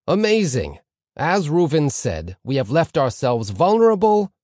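impressed rabbi, loud and high, climbing to "vulnerable"; voice rising to vulnerable. A narrator's reading. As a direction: lift the voice up onto "vulnerable" and hang there. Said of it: "his voice rising to vulnerable".

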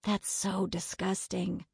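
soft, slow whisper of disgust. A narrator's reading. Melody to friend as aunt eats greasy burger, whispering. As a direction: whisper it slowly. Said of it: "Melody whispered".

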